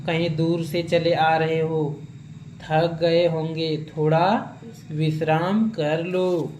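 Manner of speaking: slow, gentle welcome; lovingly. Retold or imitated. Sage's parrot welcoming the weary horseman, slow and gentle. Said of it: "बड़े प्यार से बोल रहे हैं".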